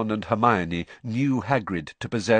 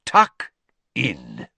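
deep-voiced headmaster; 7 semitones lower, 6 dB louder than usual. A narrator's reading. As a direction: boom it out, then sink deep. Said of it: "his deep voice echoing around the hall".

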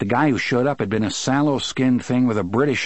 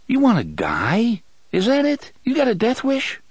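angry; 12 semitones higher than usual. A narrator's reading. Eddie confronts bad heroin.

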